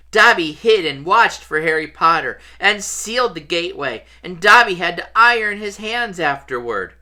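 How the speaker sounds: high, earnest elf voice; Dobby. A narrator's reading. House elf confessing he sealed the gateway, high elfin voice.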